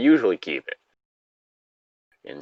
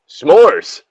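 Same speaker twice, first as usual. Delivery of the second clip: high, loud gleeful cry; excited reveal; 8 semitones higher, 8 dB louder than usual. Acted. John shows friends his surprise, loud and gleeful. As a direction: announce the treat with glee.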